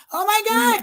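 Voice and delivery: high, surprised "oh my God"; gasping in real delight at a gift; overwhelmed gasp. Real, not acted. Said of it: "I'm like a little kid".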